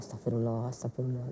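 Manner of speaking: very low, hushed self-calming; holding back anger. Acted. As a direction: murmur a prayer under your breath to rein in temper. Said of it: "saya tuh emosi banget".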